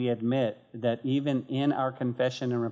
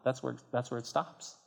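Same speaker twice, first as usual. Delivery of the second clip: quiet emphasis; 7 dB quieter than usual. Real, not acted. Preacher drops voice for emphasis.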